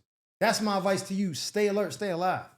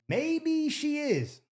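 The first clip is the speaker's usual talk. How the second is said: sarcastic aside; 7 semitones higher, 3 dB quieter, much slower than usual. Real, not acted. Cohost teases mid caller story.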